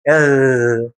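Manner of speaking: "اغ" as a long throaty gargled gh; baby-play gargle. Shown as a demonstration. Teacher imitating play with a small child, gargled R. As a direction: roll "اغ" in the throat as if amusing a baby. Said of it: "لما تكون بتلعب عيل صغير".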